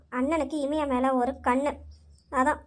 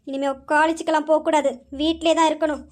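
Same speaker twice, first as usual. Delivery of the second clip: louder, firm command; stern order; 4 dB louder than usual. Acted. Grandmother orders the maid, firm and louder. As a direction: lay down the law to the maid.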